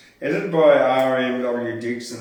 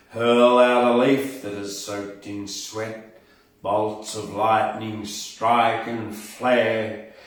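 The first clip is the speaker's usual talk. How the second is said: dramatic poem reading; 4 dB louder than usual. Shown as a demonstration. Host reads the English Thunder poem to his listeners, booming recital. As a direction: let each line swell and roar like the storm. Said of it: "Then in English".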